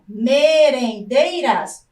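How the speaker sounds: slow, drawn-out "Merendeiras" in separate syllables. Shown as a demonstration. Teacher counting syllables for pupils, slowly split. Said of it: "Então, vamos contar".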